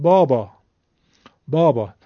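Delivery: بابا with open back 'aa' vowels; Persian long alef. Shown as a demonstration. Teacher showing students Persian alef, open back 'aa' in بابا.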